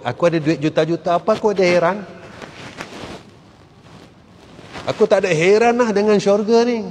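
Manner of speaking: lightly voiced boastful snob; arrogant rich man. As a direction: brush off heaven like a proud rich man. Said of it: "dengan sikap sombong dia".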